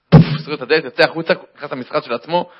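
usual speaking voice

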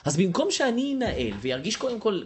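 ordinary talk, nothing marked

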